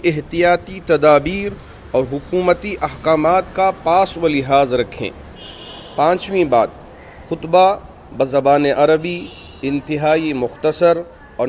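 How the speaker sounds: formal read-aloud of a written resolution; deliberate announcement, pausing between phrases; reading out points. Real, not acted. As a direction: read it out point by point, measured and firmer. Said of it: "point point آپ کے سامنے پڑھ کے سنا دوں".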